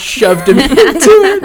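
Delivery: laughing through the words, high; giggling it out slowly. Real, not acted. Laughing while telling the story.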